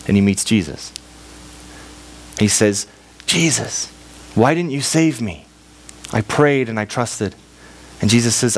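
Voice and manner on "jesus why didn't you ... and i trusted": plaintive complaint. Acted. Dead man complains to Jesus.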